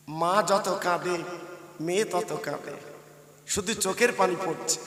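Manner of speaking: low, soft narration; hushed sorrow. A narrator's reading. Preacher describing mother and daughter weeping, hushed and low. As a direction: let the voice sink almost away.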